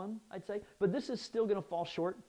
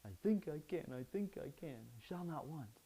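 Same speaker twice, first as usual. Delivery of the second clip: softer with each line, chugging along; little engine that could; 3 semitones lower, 8 dB quieter than usual. Shown as a demonstration. Preacher mimics the little engine, chugging chant. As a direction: chant it like the little train on a hill. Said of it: "little engine that could".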